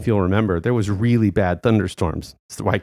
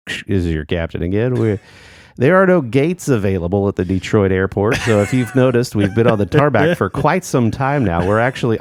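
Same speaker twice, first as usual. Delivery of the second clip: lightly voiced announcer-style captain; a hint of a stadium announcer; baseball announcer voice. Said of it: "the captain comes on and says".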